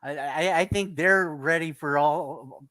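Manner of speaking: nervous stutter, repeated starts. Real, not acted. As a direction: trip over the first words. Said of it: "I'm, I'm stuttering".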